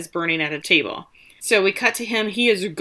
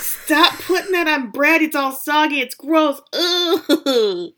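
high-pitched, disgusted protest; revolted whine ending in an ugh; grossed out; 8 semitones higher, slower than usual. Real, not acted. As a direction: recoil in real disgust, pitch up. Disgusted by soggy bread on plate.

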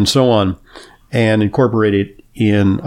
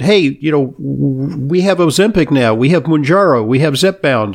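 mock breezy doctor; 3 semitones higher than usual. Mocking a quick-fix doctor.

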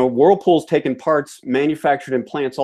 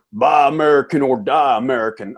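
put-on Southern accent. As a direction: slip into a broad Southern accent. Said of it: "periodically slip into a Southern accent".

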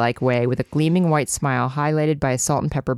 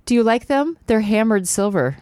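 posh mom voice; 6 semitones higher than usual. Acted. Mom voiced in read scene.

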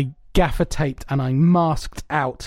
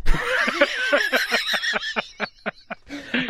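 laughter; 11 semitones higher than usual. Real, not acted. Laughing at the story.

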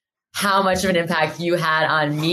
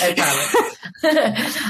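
drawn-out promise; much slower than usual. Real, not acted. Promising not to cry.

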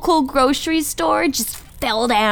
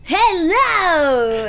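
big hello. Acted. Guest greets when introduced.

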